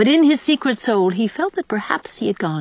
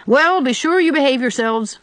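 put-on higher, firm warning from a strict old lady; 7 semitones higher, 4 dB louder than usual. A narrator's reading. Mrs Lynde warning the children off to church, firm high warning. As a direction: wag a finger as you warn them. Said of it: "she warned them".

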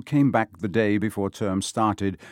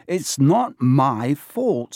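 defensive captain; 4 semitones higher, 4 dB louder, much slower than usual. Acted. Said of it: "said Wood".

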